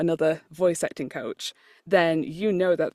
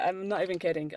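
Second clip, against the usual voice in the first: normal talking voice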